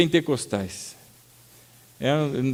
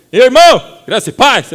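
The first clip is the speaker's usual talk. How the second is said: much louder, higher booming church greeting; 9 semitones higher, 12 dB louder than usual. Retold or imitated. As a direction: greet as if the whole church should hear. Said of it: "Sai aquele".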